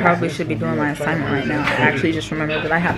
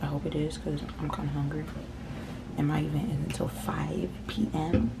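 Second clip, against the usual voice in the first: whispering; 5 dB quieter than usual. Real, not acted. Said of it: "I'm whispering 'cause".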